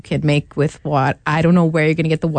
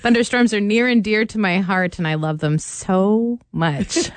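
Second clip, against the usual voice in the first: sarcastic. Real, not acted. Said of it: "I'm being sarcastic".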